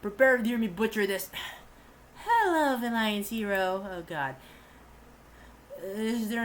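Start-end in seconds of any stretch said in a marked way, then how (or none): 2.2-3.9 lightly raised woman's voice, slower; a man voicing a polite young woman; girl voice. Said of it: "the girl voice again".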